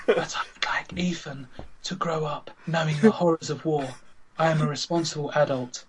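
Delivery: whispered posh lady. Acted. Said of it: "she says in her posh voice".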